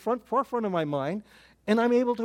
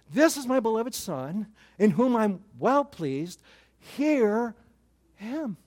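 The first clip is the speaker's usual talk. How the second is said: voice from heaven; 3 semitones higher, slower than usual. Retold or imitated. Voice from heaven quoted again.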